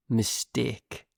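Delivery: northern English "Mistake", short pure vowel in the second syllable; northern English accent. Shown as a demonstration. Teacher shows learners how they say it, northern English accent. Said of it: "is how I say it".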